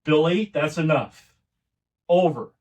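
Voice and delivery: grandfather shutting her down. Retold or imitated. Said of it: "where he shut her down".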